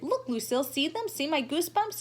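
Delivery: put-on high, eager little boy pointing. Sheldon eagerly showing Lucille his arm, high and excited. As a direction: show her, bursting with eagerness.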